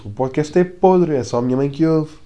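jeering self-answer; mock heckler. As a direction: tease yourself like a rude fan. Answers own question as heckler.

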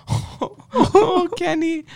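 put-on high, teasing Chinese-accent offer of ice cream; taunting Kenny in a high mock Chinese accent. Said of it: "they said".

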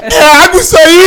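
loud, high outburst of disbelief; mock incredulous shout. Teller acting out the man demanding if that is water, shouting. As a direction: cry it out high and loud, indignant.

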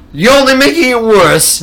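high, loud mock scolding; alarmed warning. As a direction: warn him in a scandalized high voice. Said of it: "And so he goes".

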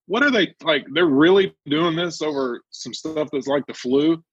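can't believe they're serious; incredulous. Retold or imitated. Retelling his phone call to Will, incredulous.

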